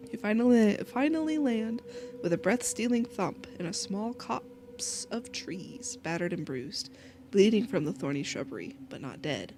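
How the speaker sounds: story narration. A narrator's reading. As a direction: read it like a grim tale, trailing down. Reads game narration.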